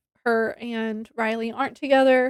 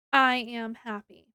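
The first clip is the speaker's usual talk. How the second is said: slower, softer restated happy; sincere repeat; 5 dB quieter than usual. Real, not acted. Reviewer restates happiness about the ending, slow and soft. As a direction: let the words settle, slow and soft.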